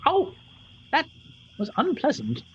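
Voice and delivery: put-on high, creaky little old woman; tiny old lady voice. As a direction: play a bossy tiny crone, way up high. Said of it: "rubs the exact same knee and says".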